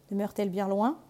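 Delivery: whispered, sly wolf. Acted. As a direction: breathe the question like a scheming wolf. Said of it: "lui dit le loup". (loup rusé qui chuchote)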